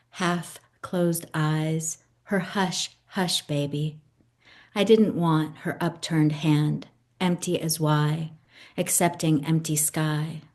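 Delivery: slow, measured poetry reading with lingering pauses; poem reading. Acted. Poet reading her Pietà poem aloud to the host, slow and measured. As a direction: savour each image, unhurried.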